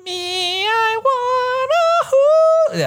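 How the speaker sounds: high, slow squeaky chipmunk singing. Pretend. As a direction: sing it slowly like a chipmunk, very high. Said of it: "can you do it in chipmunk voice?".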